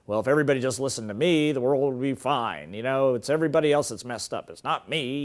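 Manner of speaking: lightly acted low stubborn grumble; a hint of a pigheaded know-it-all; stubborn little voice. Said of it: "This is the stubborn little voice".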